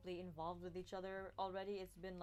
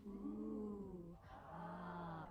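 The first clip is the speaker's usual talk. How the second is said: crowd oohs and ahs; 2 semitones lower, 4 dB quieter than usual. Acted.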